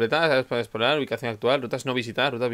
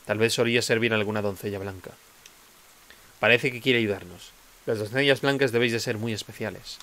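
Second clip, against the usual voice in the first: reading game dialogue. Acted. Reads NPC dialogue aloud.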